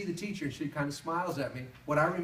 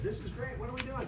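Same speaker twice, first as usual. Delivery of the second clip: put-on high, eager kid voice; a young boy excited to leave school early; 9 semitones higher than usual. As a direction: bubble over like a happy child. Excited child.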